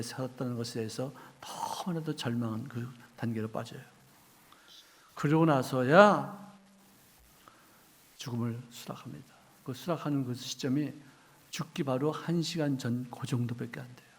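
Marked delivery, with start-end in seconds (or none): 5.2-9.3 slow whisper. Real, not acted. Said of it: "dramatic pause before acceptance".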